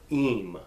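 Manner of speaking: Eem with a long 'ee'; stressed eem ending. Shown as a demonstration. Teacher sounding out the plural ending I M, long 'eem'. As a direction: give Eem a full, long vowel. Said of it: "always need to be stressed".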